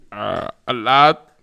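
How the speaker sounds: a lightly voiced eager briber; mock sly answer. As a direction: drag it out like a briber. Company answers in mock scene.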